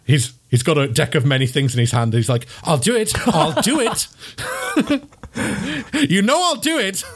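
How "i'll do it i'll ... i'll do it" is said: higher, giddy threat; threatening wizard. Acted. Wizard waving a deck of many things, giddily threatening in a higher voice. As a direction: dare them to stop him.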